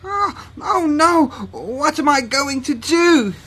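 high, loud wail; panicked cat. Acted. Theo learning animals are being sold, panicked. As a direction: wail it in dismay. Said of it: "said Theo".

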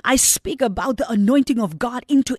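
fervent pulpit declaration; preaching at full force. Acted. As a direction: declare it over every house.

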